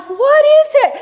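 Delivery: high, loud startled cry with a laugh; suddenly alarmed, half laughing; a yelp of disbelief, laughing; startled question. Retold or imitated. Smelling something in the car.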